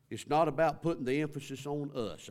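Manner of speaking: raising the voice to drive it home; preaching at full force. Real, not acted. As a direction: hit not hard and swell. Preacher stressing the contrast.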